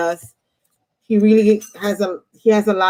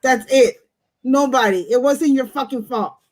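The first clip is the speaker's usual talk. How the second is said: raised, heated rant, higher pitch; pissed off; 4 semitones higher than usual. Real, not acted. Reader fired up for her client, real pissed-off rant. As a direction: let the anger push the pitch up. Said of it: "See, I'm pissed off".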